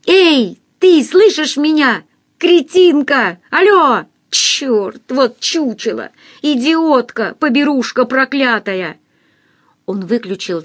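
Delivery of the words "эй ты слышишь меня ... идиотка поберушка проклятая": raised, slow furious shouting into phone; angry phone yelling. A narrator's reading. Denis shouting insults into the phone. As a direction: yell insults down the line.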